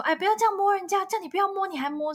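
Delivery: imitating a mother's amused, high-pitched telling-off; mock mum chiding through amusement; half-laughing scolding. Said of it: "也是有点边笑边说".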